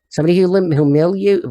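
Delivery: humiliate mangled, slurred and cut short; garbled humiliate; stumbling over the word. Real, not acted. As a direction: trip over humiliate and give up. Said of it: "well, I can't even say it".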